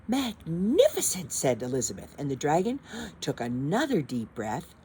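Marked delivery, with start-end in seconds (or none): 0.1-1.3 slow gushing praise. Acted. Elizabeth flattering dragon.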